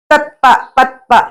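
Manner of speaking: ꯇꯠꯄ, ꯄꯠꯄ said slowly, each syllable set apart; slow syllable demonstration. Shown as a demonstration. Teacher showing learners how closed syllables sound, slow and separated. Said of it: "ꯁꯨꯃꯥꯏꯅ ꯍꯥꯏꯕꯗꯅꯦ".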